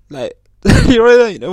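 high, loud words through a burst of laughter; laughing. Real, not acted. Laughing to viewers about stepping in dog shit, laughing. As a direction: laugh it out while asking.

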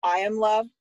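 firm little prompt, imitating a child; imitated child leading. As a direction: lead the affirmation like a preschooler. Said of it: "You need to repeat it".

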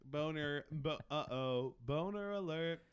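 mock teasing crowd; mocking laughter. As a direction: jeer at him. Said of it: "He's like".

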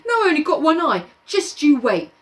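high fast whine; whiny threat. Acted. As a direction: whine it quickly. Piggy threatening Jack.

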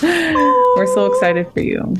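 high, slow, delighted; excited. Real, not acted. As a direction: gush with excitement. Excited congratulation, laughing.

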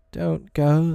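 high, pleading call; pitying call. A narrator's reading. Boys calling Tootles back, in pity. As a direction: call after someone with pity, pitched high. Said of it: "they called in pity".

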